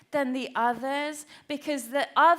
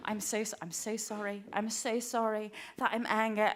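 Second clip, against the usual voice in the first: hushed, much softer apology; contrite apology; 3 semitones lower, 7 dB quieter than usual. Retold or imitated. Mum apologising to her child for being angry, meek and quiet. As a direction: apologise meekly, stumbling over the words. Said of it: "I was like".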